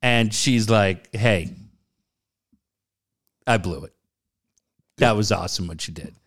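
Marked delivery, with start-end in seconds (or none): 1.1-6.1 downcast. Retold or imitated. Retelling her downcast apology.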